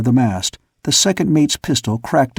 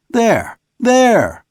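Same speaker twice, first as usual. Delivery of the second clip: urgent pointing; 10 semitones higher than usual. A narrator's reading.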